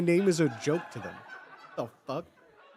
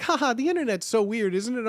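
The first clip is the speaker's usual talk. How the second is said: higher, imitating a polite forced chuckle; awkward mock laugh; 4 semitones higher than usual. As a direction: play someone laughing off the awkwardness. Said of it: "And so they just laugh".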